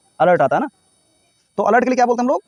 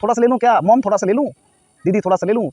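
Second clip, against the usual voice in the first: put-on higher, rising asks, a child begging for a little; pleading child; 4 semitones higher than usual. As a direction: wheedle like a kid asking mom. (बच्चा माँ और दीदी से थोड़ी ice cream माँगते हुए)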